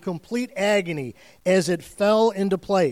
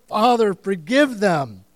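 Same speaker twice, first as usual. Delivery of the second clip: loud, slow yelled plea; loud drawn-out cry from the cross; yelling; 6 dB louder than usual. Acted. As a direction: shout it slowly up to the Father. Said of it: "as he yells".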